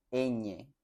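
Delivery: "Ñ" said on its own, "eñe"; letter ñ. Shown as a demonstration. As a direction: model the letter name. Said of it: "Esa es la pronuncia".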